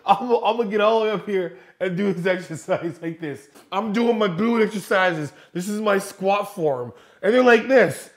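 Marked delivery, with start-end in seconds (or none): 0.0-6.9 lightly voiced mocking gym girl; a hint of a mocking influencer voice. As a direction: parody a show-off gym girl.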